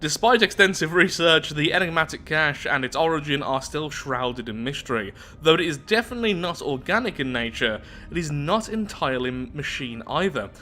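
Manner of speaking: measured read-aloud narrator voice; story narration. Acted. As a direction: read the lore out evenly, like an audiobook. Reads research report aloud.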